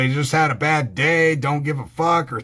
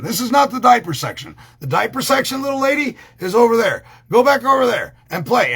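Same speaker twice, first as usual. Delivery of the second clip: put-on yelling at kids; 5 semitones higher, 3 dB louder than usual.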